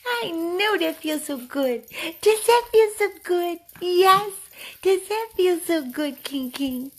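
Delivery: loud, high, stretched-out cooing; squealing pet-owner voice; high-pitched dog talk. Real, not acted. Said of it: "He loves when I talk all high pitch".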